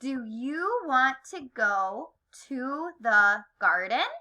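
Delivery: word-by-word question, lifted at "garden". Shown as a demonstration. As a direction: read it for learners to join, "garden" swooping up. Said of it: "say it like a question".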